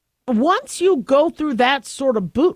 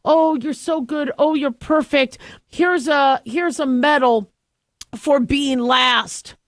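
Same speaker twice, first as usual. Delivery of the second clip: lightly mocking, slow doting praise; a hint of a coddling parent; 2 semitones higher, slower than usual. Mocking coaches who praise kids for coming last. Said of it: "everything isn't".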